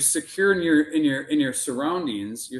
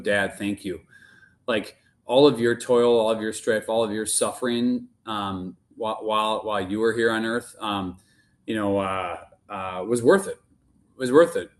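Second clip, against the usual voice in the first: heartfelt gratitude; 3 semitones lower than usual. Retold or imitated. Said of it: "overwhelmed and overfilled with this notion of gratitude".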